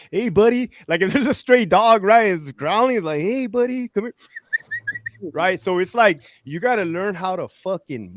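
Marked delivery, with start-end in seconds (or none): 0.1-0.7 high, coaxing call to a stray dog; mock sweet-talking, pitched up. 3.2-4.1 high-pitched coaxing, as to a growling dog; mock sweet-talking, pitched up.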